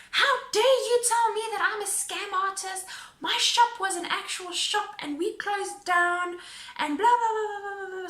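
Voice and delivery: hammed-up outrage, pitched high; mock angry scream. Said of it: "she starts screaming at me".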